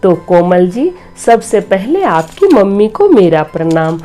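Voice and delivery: ordinary delivery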